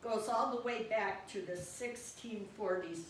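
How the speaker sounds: lively poem recital, phrase by phrase; poetry reading. Acted. Poet to the guide dog about slurping, animated poetry reading. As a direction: recite it as verse addressed to the dog.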